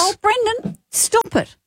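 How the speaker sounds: high-pitched teasing protest; high squeal of "oh, stop it"; playful scolding. Real, not acted. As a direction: scold a co-host in a high, mock-offended voice. Teased about a singer.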